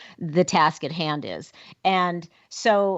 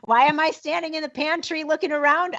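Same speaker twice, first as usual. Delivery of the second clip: higher-pitched, mock-baffled questioning of oneself; amused, hammed-up bewilderment at your own forgetfulness; acted puzzlement; 7 semitones higher than usual. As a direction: play up being lost in your own house.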